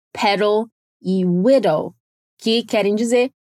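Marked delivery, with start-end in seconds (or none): 0.1-1.9 "pedal e widow" slowly, each D lightly tapped; careful "pedal e widow", D's as quick taps; soft D sound. Shown as a demonstration. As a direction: say "pedal e widow" low and slow, weak D's. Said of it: "só que bem fraquinho".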